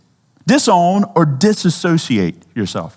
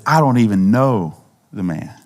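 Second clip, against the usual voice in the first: cursing Peter; 7 semitones lower than usual. Retold or imitated. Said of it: "Peter cursed and says".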